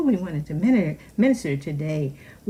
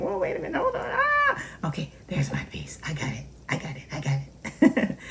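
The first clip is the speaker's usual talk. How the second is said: struggling for peace; 3 dB quieter, faster than usual. Retold or imitated. Believer fighting through to peace, startled then hushed. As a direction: catch your breath and steady yourself. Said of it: "fight through something like".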